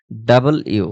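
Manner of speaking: ডাবল ইউ in two clear parts; corrected letter name. Shown as a demonstration. Teacher correcting the letter W for students. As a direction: say ডাবল then ইউ separately. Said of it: "বলতে হবে".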